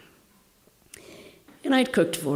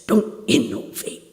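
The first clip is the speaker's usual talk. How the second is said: quoted swami, slow; 3 semitones higher, 4 dB louder than usual. Retold or imitated. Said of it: "he said".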